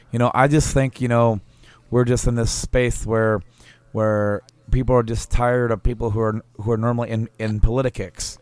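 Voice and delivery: lisp impression. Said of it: "mimic his speech impediment. He kinda has a lisp".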